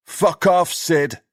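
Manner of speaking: high, loud snapping curse; angry dismissal. Acted. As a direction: tell him to get lost, fed up. Boys turn on Sid.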